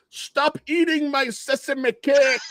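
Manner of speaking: high, drawn-out comic yell; shouted film quote. Retold or imitated. Host quoting the actor's famous line, high mock outburst. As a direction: holler it slowly, far above your own pitch.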